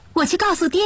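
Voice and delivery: put-on high-pitched, pleased young wife; delighted bride. A narrator's reading. New bride off to tell father the news, delighted. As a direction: pitch it high with happy surprise. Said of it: "新媳妇有些喜出望外".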